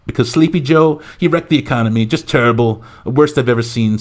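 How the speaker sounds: hammed-up salesman-like political introduction; Donald Trump. President introducing his new Treasury Secretary, mock hype. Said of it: "Trump's big announcement".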